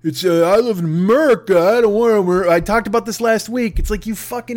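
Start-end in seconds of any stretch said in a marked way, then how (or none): 0.0-2.5 mock anti-masker. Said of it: "people who are like".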